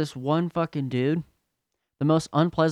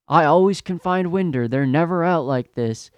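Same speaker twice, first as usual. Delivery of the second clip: slightly raised, whiny-customer imitation; mock tantrum; 4 semitones higher than usual. Customer from Salt Lake City griping about Winder, mock tantrum. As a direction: lightly act out an entitled complaint. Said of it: "He's just fucking tantruming".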